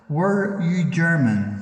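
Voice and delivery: slow, deliberate, loud repeat. Real, not acted. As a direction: spell the question out slowly for the spirit. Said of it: "Again, sir, could you please answer".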